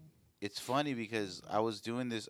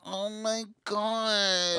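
breathy moan; 10 semitones higher, much slower than usual. Pretend. Sexy voice bit continues.

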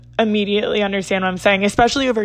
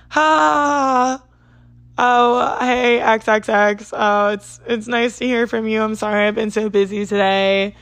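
nervous giggly quote. Retold or imitated. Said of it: "giggling on the phone because I didn't know".

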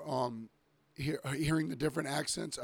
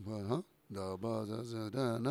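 mock Polynesian accent; 3 semitones lower, 4 dB quieter than usual. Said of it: "They say that".

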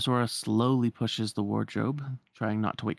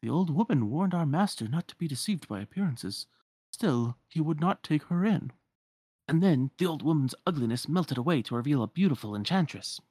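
lightly voiced, higher storyteller; storytelling servant; 4 semitones higher than usual. Enchanted servant telling the rescuers of the curse, lightly theatrical. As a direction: lilt through it like a fairy tale.

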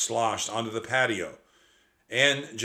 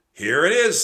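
put-on excited child; 8 semitones higher, 11 dB louder than usual. A narrator's reading. Annie finds the scroll.

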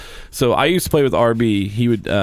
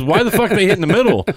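much higher mock-outraged teammate voice, laughing; imitating teammate; 9 semitones higher, 4 dB louder than usual. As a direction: squeal the baffled question. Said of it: "He goes".

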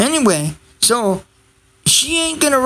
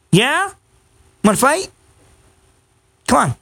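teasing the dog; 4 semitones higher than usual. Real, not acted. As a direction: egg the dog on, half joking. Teasing the dog, pet talk.

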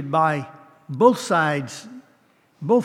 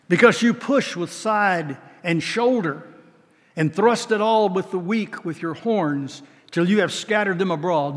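scripture reading; 3 semitones higher than usual. Acted. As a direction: read it like a prophet's warning. Reads scripture aloud.

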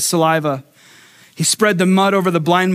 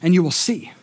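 gentle comforting voice. Acted. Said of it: "God says".

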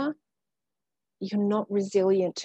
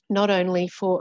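throat catching after swallowing; clearing a bug from the throat; just swallowed a bug; 4 dB louder than usual. Real, not acted. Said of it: "I think I just swallowed a bug".

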